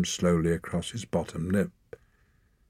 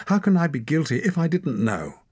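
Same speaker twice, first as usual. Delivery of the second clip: higher, louder pleading; desperate plea; 10 semitones higher, 4 dB louder than usual. A narrator's reading. Torak pleading for his life, high and loud. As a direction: beg against the verdict.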